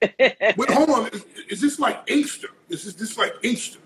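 teasing through a laugh; laughing disbelief. Real, not acted. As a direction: chuckle while pushing back. Host laughing, teasing about Inkster.

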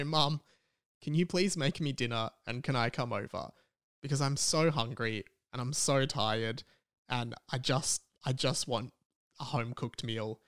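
soft, low retold plea to mum; tired, quiet re-enacted phone plea; weary plea. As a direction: ask mum for dinner, worn out and subdued.

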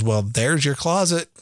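put-on slow, sassy little kid; dad imitating his son's sassy reply. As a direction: drawl it out with toddler sass. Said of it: "So he just was like sassy".

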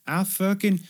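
sudden high angry yelp; brother's outburst. Retold or imitated. Brother interrupting the negotiation, high angry yelp. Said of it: "his brother keeps being like".

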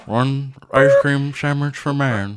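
slow, solemn moon-landing voice; Neil Armstrong. Pretend. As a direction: say it like the first step on the moon. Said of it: "like you're Neil Armstrong".

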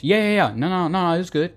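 high, rushed yeah-no jumble; waffling answer. Retold or imitated. Bad answer to the pasta question, flustered. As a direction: blurt out the yeahs and nos nervously. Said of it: "start the conversation over".

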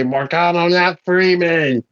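slow, grand tendril voice; otherworldly summons. Acted. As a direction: summon him slowly, like a cosmic herald. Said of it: "Tendrils reach out ... and say".

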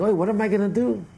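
high-pitched, wailing storyteller's lament; mock crying lament. Brother wailing so the innkeeper overhears, mock crying lament. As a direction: act out a distraught cry of woe. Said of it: "one brother starts crying".

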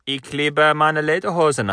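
a put-on German line, hammed up; playful mock German. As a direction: play the German tourist with the one line you know. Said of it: "It's the only line you know".

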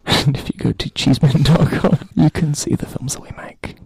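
close mic. Acted. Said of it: "I'm also gonna do the close mic approach".

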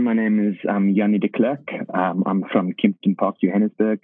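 a hint of a Johannesburg South African accent on the greeting; light South African accent. A friend asked to do his South African accent, light South African accent. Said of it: "So you give them the South African accent".

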